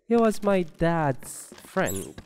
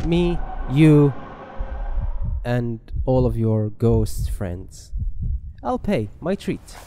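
mock flirting; 6 dB louder than usual. Flirting with a game ghost.

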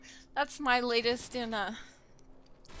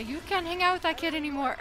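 laughing; 6 semitones higher than usual. Retold or imitated. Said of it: "Their parents are gonna say".

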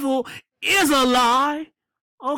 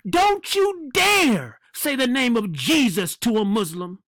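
mocking the Pope. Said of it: "he's saying".

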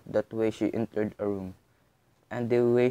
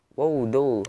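cried out with delight; 3 semitones higher, 5 dB louder than usual. Acted. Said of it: "she cried".

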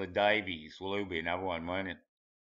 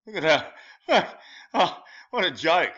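laughing scorn; 7 semitones higher, 7 dB louder than usual. Real, not acted. Laughing at a photo.

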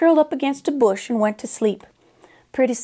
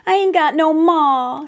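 slow, higher and louder, a mock sob; a lightly voiced orphan crying for her ma; bawling little girl; 5 semitones higher, 4 dB louder than usual. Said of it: "she went right on bawling".

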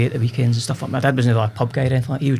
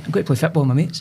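casual broad Scots, as a lad would; gallus and cool; 3 semitones higher than usual. Retold or imitated. Lad repeating himself to his mum, lightly gallus. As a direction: repeat it offhand to a questioning mum. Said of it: "you spoke 'cause you were gallus and cool".

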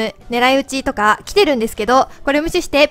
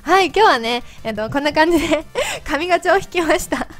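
chipmunk voice from helium; 3 dB louder than usual. Real, not acted. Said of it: "自分で聞いてると声よくわかんない". (ヘリウムガスの甲高い声)

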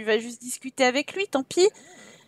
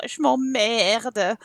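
bored Sim voice; 3 semitones lower, much slower than usual. Retold or imitated. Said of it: "il est juste venu dans la cave pour dire".

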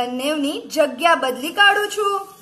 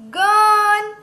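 loud, high, drawn-out word; reading out loud; 5 semitones higher, 6 dB louder than usual. Shown as a demonstration. Teacher models a word for children, loud and drawn out. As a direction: sound it out loudly on a held high note. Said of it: "વાંચશો ને જોરમાંથી".

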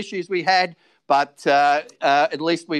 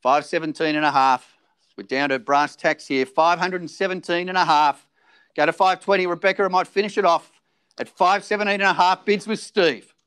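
auctioneer calling. Acted.

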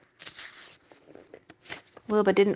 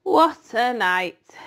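slow, drawn-out husky rat; 4 dB louder, much slower than usual. Acted. Templeton sighs over his night of feasting, husky. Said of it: "he said in a husky voice".

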